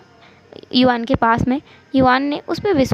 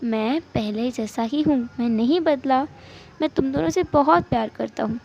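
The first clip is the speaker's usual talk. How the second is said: soft, measured reassurance; cool, calm; 5 dB quieter than usual. Acted. Husband reassuring crying spouse of his love, calm. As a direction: take a breath and soothe quietly. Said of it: "सान एकदम cool हो गया".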